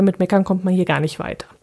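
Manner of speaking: ordinary delivery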